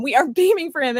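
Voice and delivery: laughing. Real, not acted. Host overcome by joy, laughing. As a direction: breaks into a real laugh mid-line.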